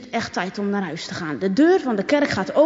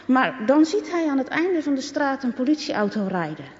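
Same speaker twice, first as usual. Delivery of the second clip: plain reading voice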